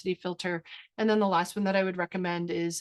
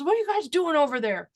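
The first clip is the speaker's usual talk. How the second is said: dad calling over; 6 semitones higher, 4 dB louder than usual. Retold or imitated. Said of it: "And my dad goes".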